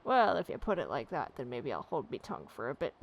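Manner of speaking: a hothead backing down; grudging coachman. Acted. Driver relents to the adventurer, grudging gruff voice.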